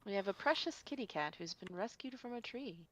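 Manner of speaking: mock news-anchor delivery; newsman. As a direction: report it like a TV newsman. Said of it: "they sound like a newsman".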